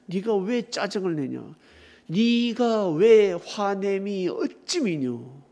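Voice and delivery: slow, drawn-out solemn reproof; God's reproof. Acted. God asking Jonah about his anger, slow reproof. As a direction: stretch out the question as a lightly acted God. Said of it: "그때 하나님이".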